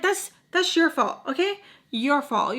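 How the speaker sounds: high, slow taunting blame; mocking told-you-so; pointed blame. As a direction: rub it in. Blaming the ex pointedly.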